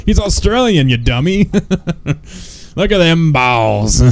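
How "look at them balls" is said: laughing mock Irwin. Imitating Irwin while laughing.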